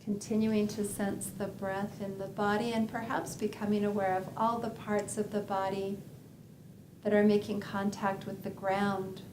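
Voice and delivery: unhurried body scan guidance with long pauses; calm, measured meditation guide; guided meditation. Acted. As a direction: lead them gently through a body scan, leaving space between phrases.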